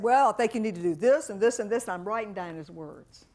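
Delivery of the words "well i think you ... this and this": dealer advising. Retold or imitated. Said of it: "he said".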